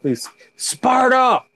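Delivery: very high, slow, drawn-out Sparta yell; Sparta cry for the dog. Pretend. Calling to Molly the dog, a high Sparta yell. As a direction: stretch Sparta out as a call. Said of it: "Molly's ready when you say".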